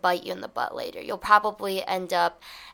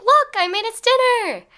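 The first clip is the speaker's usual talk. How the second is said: high, loud, proud announcement; gleeful, raised-pitch exclamation; excited; 8 dB louder than usual. Acted. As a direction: burst out with the happy news. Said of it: "instead of being excited".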